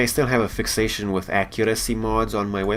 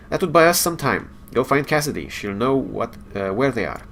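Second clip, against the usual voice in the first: lightly voiced engineer, a bit higher, no Scottish accent; game dialogue read in a light character voice; Scotty, no accent; 4 semitones higher than usual. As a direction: read the engineer's lines a little higher, no brogue attempted.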